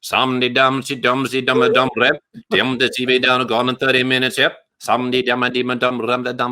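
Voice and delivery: Shaggy-style Caribbean accent; mumbled Caribbean accent gibberish. Shown as a demonstration. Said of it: "give me an example. Go".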